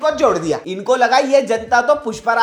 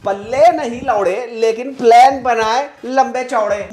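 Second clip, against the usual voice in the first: Lord Mountbatten quote; 5 dB louder than usual. Retold or imitated. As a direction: declaim it like a colonial lord. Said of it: "कह गया था Lord Mountbatten".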